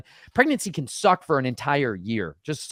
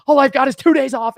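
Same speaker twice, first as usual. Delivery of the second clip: griping worker; 11 semitones higher, 9 dB louder than usual. Retold or imitated. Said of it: "You're like".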